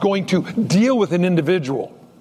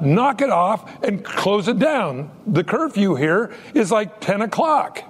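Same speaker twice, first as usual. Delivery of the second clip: retelling Joe's story; 5 semitones higher than usual. Retold or imitated. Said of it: "And he goes".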